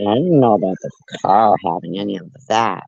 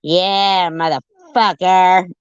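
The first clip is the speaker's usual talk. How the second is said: mock curse; 7 semitones higher, 5 dB louder, slower than usual. Real, not acted. Mock agreement, cursing the driver.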